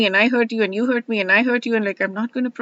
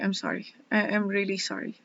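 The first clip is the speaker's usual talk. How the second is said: soft apology; 7 dB quieter than usual. Retold or imitated. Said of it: "And I'm just like".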